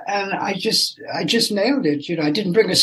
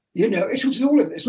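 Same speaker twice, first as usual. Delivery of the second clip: normal talking voice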